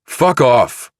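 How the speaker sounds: high, loud curse; angry yell. Acted. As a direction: spit it out in a rage. Chilton storms off.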